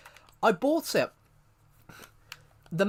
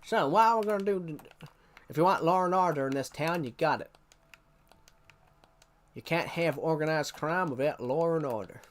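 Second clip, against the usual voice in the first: cowboy sheriff voice. Pretend. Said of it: "Now I'm gonna talk like this".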